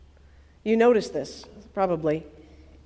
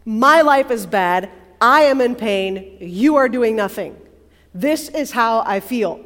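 turned inward; 7 dB louder than usual. Acted. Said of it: "kind of turned inwardness".

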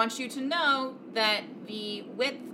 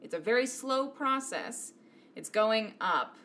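game master narration. A narrator's reading. DM describes door opening.

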